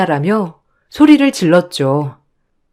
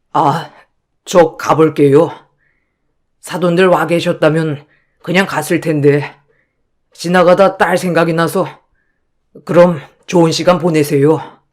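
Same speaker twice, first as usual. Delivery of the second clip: apologetic father. Acted. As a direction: excuse yourself humbly as an unwelcome guest. (낮고 공손한 아버지 말투)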